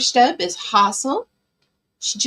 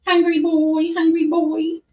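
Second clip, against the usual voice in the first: high, cooing pet voice; pet talk; 5 semitones higher than usual. Real, not acted. Owner feeding her hungry cat, high pet talk.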